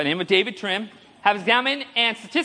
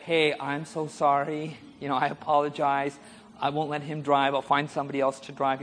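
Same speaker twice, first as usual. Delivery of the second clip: apologetic; 6 semitones lower, 4 dB quieter than usual. Retold or imitated. Driver apologizes to the cop who stopped them, apologetic. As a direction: softly placate the officer.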